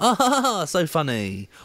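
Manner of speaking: very high, put-on fake laugh. Acting out a producer who finds a joke funny: fake laugh. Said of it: "is that the best fake laugh that you can do".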